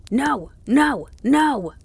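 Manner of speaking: high, loud howls, one per word; howled refusal. A narrator's reading. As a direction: howl it like a dog. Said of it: "the dog howled".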